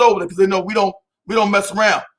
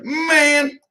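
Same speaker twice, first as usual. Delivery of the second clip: surprised shout; 8 semitones higher than usual. Real, not acted. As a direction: blurt it out in surprise. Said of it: "I was like".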